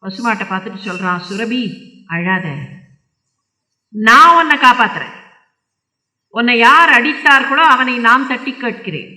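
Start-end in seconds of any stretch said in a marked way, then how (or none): 1.3-9.1 loud, resolute royal vow; firm promise. Acted. King vows to protect the weeping cow, firm and loud. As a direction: pledge protection with force.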